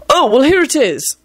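high, pleased discovery; exultant. A narrator's reading. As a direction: announce the find in triumph. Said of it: "Neville announced exultantly".

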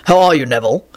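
low, composed greeting; calm. A narrator's reading. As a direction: ask it calmly and evenly. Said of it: "Quentin said calmly".

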